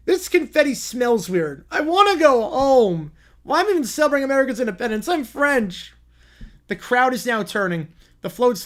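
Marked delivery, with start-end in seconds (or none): 0.1-5.9 louder, higher grumbling protest; a kid stamping his foot in a sulk; stomping tantrum. Acted. Lumberjack whining he wants to go home. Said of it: "Lumberjack is stomping his foot".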